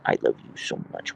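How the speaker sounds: whispered love to the dog. Real, not acted. Owner whispering love to her dog, hushed.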